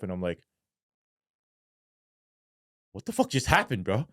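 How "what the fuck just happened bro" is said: higher-pitched retold bewilderment; reliving a surreal moment, baffled; dazed disbelief. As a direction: ask it like you might be dreaming. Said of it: "it was so surreal".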